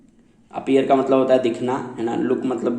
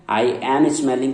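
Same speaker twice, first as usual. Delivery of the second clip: very slow, word by word; slow example; much slower than usual. Shown as a demonstration. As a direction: dictate it to the class. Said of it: "की जगह".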